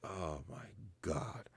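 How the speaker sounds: soft slow whispered sigh of defeat; exasperated whisper. Retold or imitated. Father melting at his cute kids, whispered. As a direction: breathe it out, melting and beaten. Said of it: "And I'm like".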